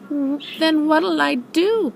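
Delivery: small, high, slow plea; high little piping question; piped. Acted. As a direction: pipe it up like a worried little kid. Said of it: "piped Roo".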